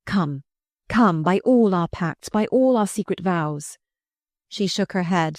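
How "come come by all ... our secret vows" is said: urgent. Acted. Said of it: "He cried urgently".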